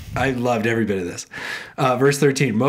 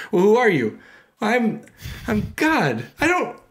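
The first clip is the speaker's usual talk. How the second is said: lightly voiced sketch; 8 semitones higher than usual. Acting God and Moses sketch.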